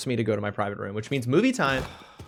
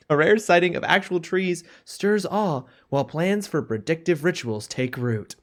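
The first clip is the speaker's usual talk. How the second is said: hushed wonder, rising higher and louder; nature documentary; 3 semitones higher, 3 dB louder than usual. Pretend. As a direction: narrate chat like wild animals on the savanna. Reads chat as wildlife narration.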